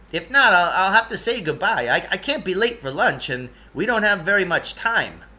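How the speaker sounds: a hint of a fussy eccentric guide; Lance's voice.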